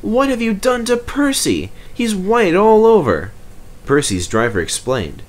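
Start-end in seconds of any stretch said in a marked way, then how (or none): 0.0-3.3 signalman voice. Acted.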